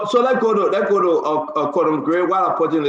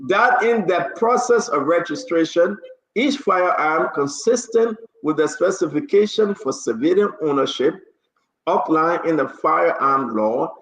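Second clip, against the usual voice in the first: measured official read-out; formal order reading. Real, not acted. Host reads next paragraph of the order, formal and measured. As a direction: read the legal text out for an audience.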